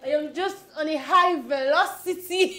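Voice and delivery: put-on drunk. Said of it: "Why are you so drunk?".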